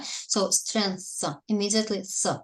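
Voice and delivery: STRENGTH with a clean th right after the n; "strength" with the final th isolated; strength ending in th. Shown as a demonstration. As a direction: say "strength", going straight into th, no j sound. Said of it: "without j".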